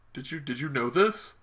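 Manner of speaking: very soft, halting question; hushed mock confrontation. As Iron Man confronting Cap over the secret, hushed mock hurt. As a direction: ask it small and hesitant, acting wounded.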